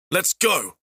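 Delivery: high, quick urge; urgent call. Acted. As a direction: hurry him along. Fadis urges escape.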